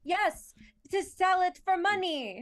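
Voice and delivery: high, loud character voice; playful high-pitched creature voice; Butcha. Pretend. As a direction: pipe up in a high, insistent little voice. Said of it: "talking like Butcha".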